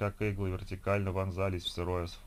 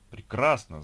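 loud burst of joy; delighted; 4 semitones higher, 7 dB louder, slower than usual. Acted. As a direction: cry out in relief and delight. Joy at Sergei's recovery.

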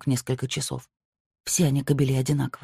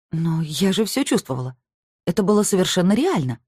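exclaiming; 5 semitones higher than usual. A narrator's reading. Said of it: "воскликнула она".

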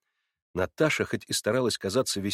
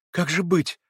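выше, тревожно; вскрикни в испуге; испуганно; 7 semitones higher, 3 dB louder than usual. A narrator's reading. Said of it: "вскричала она испуганная". (испуганная Наташа вскрикивает)

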